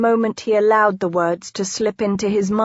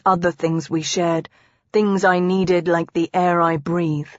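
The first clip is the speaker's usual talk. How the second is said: a touch of earnest tenderness; confessing husband; 2 semitones lower than usual. Acted. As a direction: open up to her, understated and sincere. Husband confesses his feelings.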